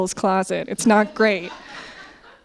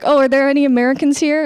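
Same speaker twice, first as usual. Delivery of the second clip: bright, higher, quicker mock host call; mock eager comedian; 5 semitones higher, 4 dB louder, faster than usual. Scene: comedian on stage calls out to the Americans, eager and quick. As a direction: tease the crowd with a quick eager question. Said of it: "they'll be like".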